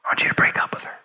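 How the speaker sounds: God's order whispered, ominous; whispered command. Retold or imitated. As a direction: whisper it like a looming warning. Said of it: "A couple weeks later".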